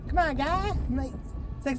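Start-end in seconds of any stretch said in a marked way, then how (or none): 0.1-0.7 put-on higher, protesting Canadian accent; Canadian scientist. Canadian scientist protesting to the patient, mock Canadian accent. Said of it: "He's like".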